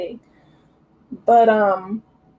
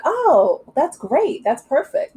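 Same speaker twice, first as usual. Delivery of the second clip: lightly acted delight, higher pitch; delighted retold reply; 6 semitones higher, slower than usual. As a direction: imitate a pleased boss, pitched up. Voicing her delighted casting reply.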